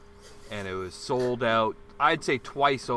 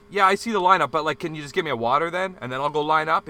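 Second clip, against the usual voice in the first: louder, pushy plea for water; retold raised voice; 3 semitones higher, 4 dB louder, faster than usual. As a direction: press him, getting worked up. Retold argument with bartender.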